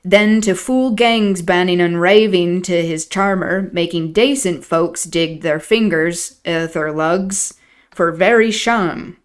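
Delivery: put-on broad old Yorkshire servant voice; Yorkshire dialect. Nellie voicing old Joseph in thick dialect. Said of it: "Nellie doing an impression of Joseph".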